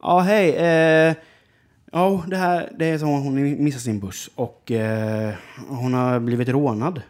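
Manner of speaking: the woman's friend explains on the phone, lightly voiced; voicing the friend on the phone. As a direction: lightly play the caller explaining. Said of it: "Och jag bara".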